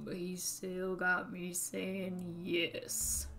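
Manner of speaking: put-on old Southern man voice; southern accent. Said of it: "when I do a southern accent".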